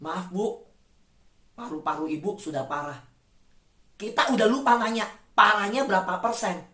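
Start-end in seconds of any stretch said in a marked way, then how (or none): 0.0-3.0 doctor's grim news. Retold or imitated. Doctor's verdict voiced.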